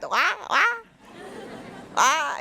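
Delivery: high mock Jamaican babble; Jamaican accent. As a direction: imitate his Jamaican speech as sounds. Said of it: "this Jamaican path".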